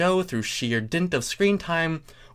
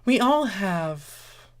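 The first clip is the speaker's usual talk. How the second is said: husky and sultry; 9 semitones higher, much slower than usual. Acted. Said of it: "husky and sultry".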